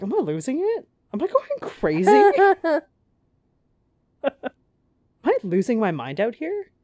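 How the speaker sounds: high, unhinged mock panic; paranoid wail. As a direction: play a killer losing it, voice cracking high. Killer doubting own sanity.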